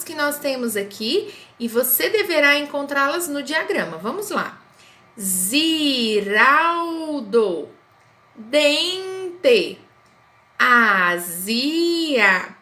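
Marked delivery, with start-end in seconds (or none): 5.2-12.6 Ziraldo said slowly, split into syllables; spoken slowly. Shown as a demonstration. Teacher clapping out syllables for pupils. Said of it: "eu falei pausadamente".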